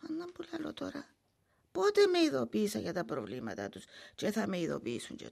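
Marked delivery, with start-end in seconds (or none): 0.1-1.1 whispering. Acted. Old woman worrying alone.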